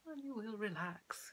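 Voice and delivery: high, flowery hypnotist lilt; fey, unconvincing suggestion voice; airy-fairy. Shown as a demonstration. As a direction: float the suggestion out airily. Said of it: "rather than airy, fairy, flowery sort of".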